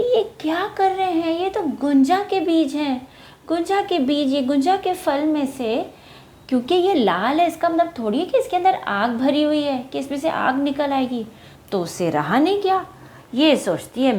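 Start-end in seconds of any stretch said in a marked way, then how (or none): 0.0-11.3 bird's thoughts. Acted. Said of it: "तो ये सोच रही".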